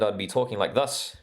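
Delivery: light New Zealand accent, vowels shifted Kiwi-style. Shown as a demonstration. Australian host joking he'd sound New Zealand, mild New Zealand accent. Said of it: "If I was from New Zealand".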